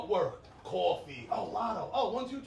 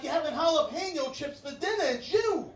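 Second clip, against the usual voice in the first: raised, higher mock yell; retold yelling; 5 semitones higher, 5 dB louder than usual. Comic blaming his partner for the problem, mock accusing yell. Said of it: "I'm yelling at her".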